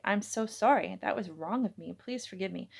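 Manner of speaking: mild Irish lilt, deep and husky; thick Irish accent. Acted. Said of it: "his Irish accent thicker, his voice deep and husky".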